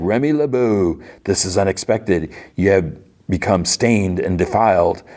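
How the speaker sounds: mock-grand, deliberate delivery; lightly voiced imperious ancient being; awakened immortal. The External questions Remy, stately mock-imperious voice. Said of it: "And she's like".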